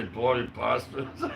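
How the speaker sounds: slow, laughing mock Australian accent; William's Aussie accent. Doing William's Aussie swear to the viewers, mock Australian accent. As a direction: drawl it like an Aussie mate, through a laugh. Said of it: "William would say".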